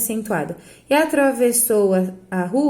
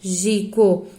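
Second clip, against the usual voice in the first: "mágico" as strong MÁ, gap, lower gi-co; stress on first syllable; 4 semitones lower than usual. Shown as a demonstration. Teacher marking the strong syllable, mágico led by MÁ. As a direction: punch MÁ and let gi-co drop. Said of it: "Sobram outras duas".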